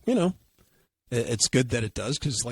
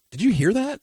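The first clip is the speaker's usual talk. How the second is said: high, puzzled question; surprised question; 11 semitones higher, 4 dB louder than usual. Retold or imitated. Mike asks his friend mid-flight, high and puzzled. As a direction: ask it high with sudden curiosity. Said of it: "He goes".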